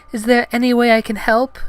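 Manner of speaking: high, loud falsetto heroine; Padme. Acted. Heroine offering first aid to Gungan, high loud falsetto. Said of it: "she said".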